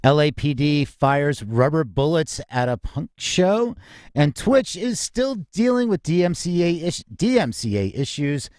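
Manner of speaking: polished radio-host opening, measured pace; upbeat host welcoming listeners to the hour; show announcer read. Acted. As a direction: open the show like a broadcast announcer.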